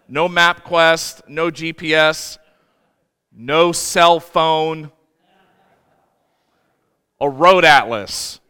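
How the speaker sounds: slow, each item set apart by pauses; slow emphatic list. Real, not acted. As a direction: spell it out, one by one. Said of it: "dramatic pause list".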